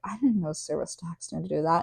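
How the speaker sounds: soft aside murmured to her husband; quiet tongue-in-cheek aside to husband; retold whisper. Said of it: "whispered to my husband".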